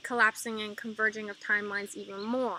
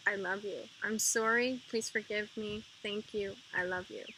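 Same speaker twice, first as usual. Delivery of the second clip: repeated mantra, softer on each pass, nearly murmured; softly repeated mantra; 5 dB quieter than usual. Shown as a demonstration. Guiding viewers through the repeated forgiveness mantra, softly. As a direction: let each repetition sink softer, like a prayer. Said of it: "you just say it over and over".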